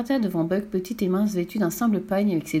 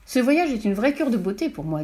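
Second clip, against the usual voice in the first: mildly pleased with herself; self-satisfied; 3 semitones higher than usual. Acted. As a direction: say it with a touch of smugness. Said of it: "d'un ton satisfait". (ton légèrement satisfait)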